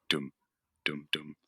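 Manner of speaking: spoken drum thuds, spaced out; imitated drum. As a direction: imitate a lone drum beat. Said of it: "apart from the drum going".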